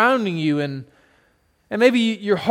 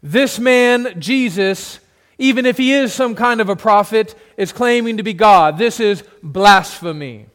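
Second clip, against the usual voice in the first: loud, higher, forceful exhortation; exhorting the crowd; 3 semitones higher, 4 dB louder than usual. Acted. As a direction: rouse the mob to judgment. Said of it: "begin to exhort the assembly".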